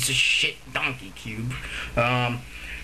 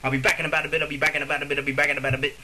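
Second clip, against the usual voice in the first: rattled off in a row; fast; much faster than usual. Shown as a demonstration. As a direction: say it quickly over and over. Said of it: "Try saying it fast a few times in a row".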